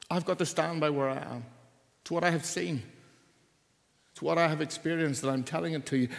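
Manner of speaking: earnest Jesus voice. Acted. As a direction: plead the truth with conviction.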